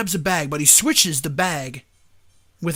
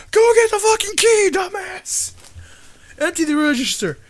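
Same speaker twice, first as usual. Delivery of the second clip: furious robber shout; 12 semitones higher than usual. Retold or imitated. Robber yelling at the bank manager for the key, high furious shout. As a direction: bark the order like a robber losing patience.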